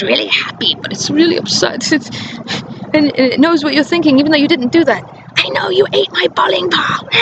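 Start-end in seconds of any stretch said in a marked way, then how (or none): 5.4-7.1 higher, put-on accusing voice; mock accusing mother. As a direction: accuse with absurd certainty.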